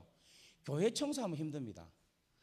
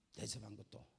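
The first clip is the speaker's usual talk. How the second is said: ordinary delivery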